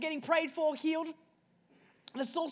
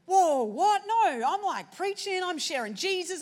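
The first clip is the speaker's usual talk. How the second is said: startled protest; 5 semitones higher, slower than usual. Retold or imitated. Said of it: "And I was like".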